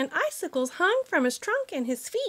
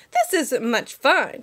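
slow, put-upon; a touch of a grumbling elephant; mild grumble; slower than usual. Acted. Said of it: "the poor elephant grumbled".

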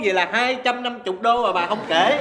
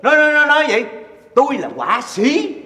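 exasperated retort; 5 semitones higher, 4 dB louder than usual. Acted. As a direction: proclaim your profession indignantly. Husband exasperated, asserts he's an artist.

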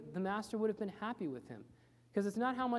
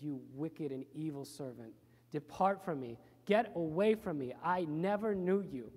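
stern condemnation; 3 semitones lower than usual. Acted. Master rebukes the wicked servant, stern and rising. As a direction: cast the servant out firmly.

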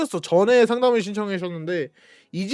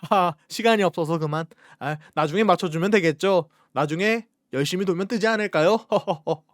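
carefree excuse voice; 4 semitones lower than usual. Retold or imitated. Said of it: "남 일인 것 마냥".

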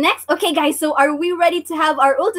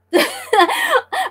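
high giggle. Real, not acted. Laughing at viewers' joking comments.

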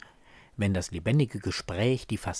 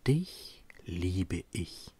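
leise, langsam, fast geflüstert; still gedacht; 3 semitones lower, 9 dB quieter, much slower than usual. Acted. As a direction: ein heimliches Liebesgeständnis leise vor sich hin sprechen. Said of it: "und denke still". (stilles, verhaltenes Geständnis)

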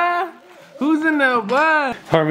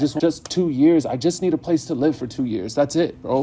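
a put-on weepy voice to sell the prank; fake crying; 7 semitones lower, 6 dB quieter than usual. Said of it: "bro, don't cry".

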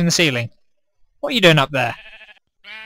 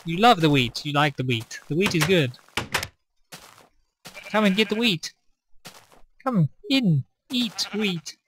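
coaxing; 3 semitones higher, 5 dB quieter than usual. Pretend. Softly luring sheep into trap.

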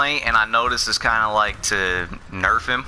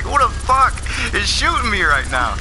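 mock yell; 9 semitones higher than usual. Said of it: "I'm like".

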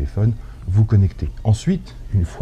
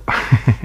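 short laugh; 3 semitones higher than usual. Real, not acted. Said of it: "Le carton qui rigole".

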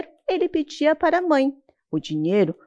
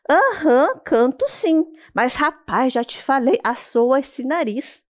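lightly voiced bossy turtle; 3 semitones higher, slower than usual. Turtle nagging the boy to blow his nose. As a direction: boss him about his nose.

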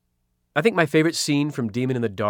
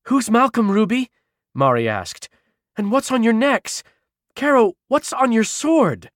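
puzzled witch voice; 10 semitones higher, 4 dB louder than usual. Acted. Mari questions Ruby.

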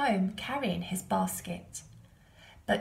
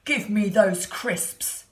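slow, loud booming elephant; 8 dB louder, slower than usual. A narrator's reading. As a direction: boom it out like an elephant. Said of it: "said the elephant".

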